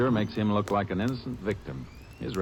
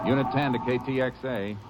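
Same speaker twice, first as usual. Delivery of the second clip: radio call again; 5 semitones higher than usual. Acted. Ranger repeating his radio call to headquarters.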